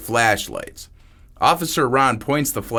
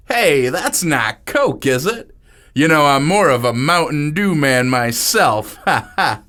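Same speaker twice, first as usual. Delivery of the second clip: dopey nervous joker; 4 semitones higher, 4 dB louder than usual. Acted. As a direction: laugh it off like a clueless host. Brian joking nervously.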